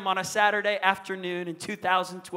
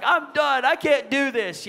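higher-pitched mock give-up; exasperated child; 5 semitones higher, 3 dB louder, slower than usual. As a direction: imitate a little boy who has had enough. Retold boy giving up in tears.

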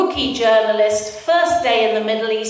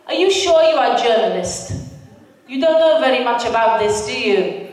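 put-on Palestinian driver accent. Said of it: "I really have to do the accents".

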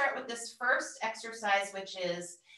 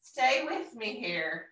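gentle coaxing; 3 dB louder, slower than usual. Pretend. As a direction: coax your wandering mind home gently. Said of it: "We can just gently say".

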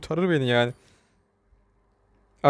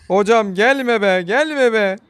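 drawn-out, louder plea to back off; pleading yell; 4 semitones higher, 4 dB louder, slower than usual. Real, not acted. Gamer pleading with an enemy chasing him, drawn-out yell. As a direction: beg the chaser to stay away, slowly.

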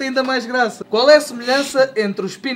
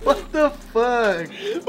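horrified disbelief; 3 dB quieter, much slower than usual. Real, not acted. Horrified at dark joke.

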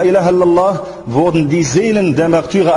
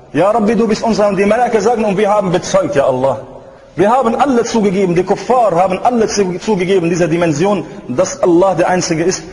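impassioned preaching. Real, not acted. Preacher reminds the faithful of their true homeland, fervent preaching. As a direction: preach it with insistent, rolling cadence.

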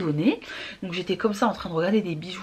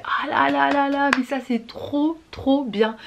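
delighted; 4 semitones higher than usual. Retold or imitated. Thrilled at a bargain.

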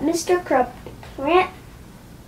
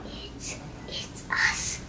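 unvoiced startled whisper; 15 dB quieter, slower than usual. A narrator's reading. George whispering to Harold in disbelief. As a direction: hush it in disbelief. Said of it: "whispered George".

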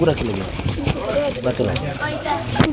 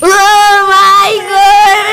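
hugely drawn-out, hammed-up exclamation; mock shocked wail; 3 dB louder, much slower than usual. Told the patient has died, theatrical drawn-out wail. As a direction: stretch it into a long theatrical wail. Acted news of patient's death.

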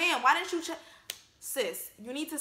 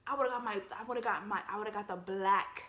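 restarting the phrase, unable to finish; stuttering; 3 semitones lower, 4 dB quieter than usual. Real, not acted. Imagining calling own mom a dummy, stuttering. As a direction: stumble over the words in disbelief. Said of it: "I'm stuttering because I can't even imagine".

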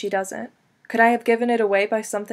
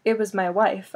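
light emphasis landing on "wife"; stress on wife. A narrator's reading. Man pointedly telling Sandy who called, stress on "wife". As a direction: lean on the last word, "wife". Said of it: "emphasis on the last word".

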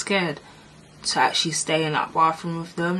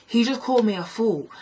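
indignant complaint; 4 semitones higher, 4 dB louder than usual. Retold or imitated. Retold angry complaint to teachers.

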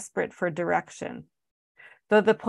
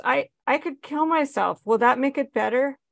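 desperate plea; 7 semitones higher than usual. Acted. Mother's outburst at son.

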